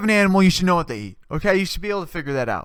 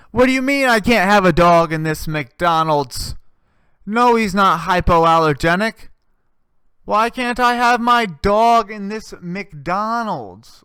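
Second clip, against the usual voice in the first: mock outrage, louder, drawn out at the end; indignant dog owner; 2 semitones higher, 3 dB louder than usual. Dog owner arguing with McDonald's staff, indignant. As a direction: act out an entitled owner protesting.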